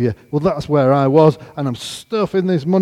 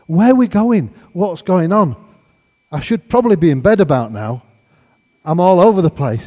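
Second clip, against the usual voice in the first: raised, louder, bewildered questioning; mock bewilderment, pitched up; bewildered protest; 5 semitones higher, 6 dB louder than usual. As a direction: retell it as flustered, loud protest. Bewildered, being pushed into a line.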